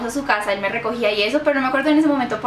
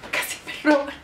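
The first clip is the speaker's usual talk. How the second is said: mimed breathless, voiceless gasp; acted panting after a run; out of breath; 2 semitones higher, 3 dB quieter than usual. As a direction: squeeze it out as if too winded to talk. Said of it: "yo no podía hablar".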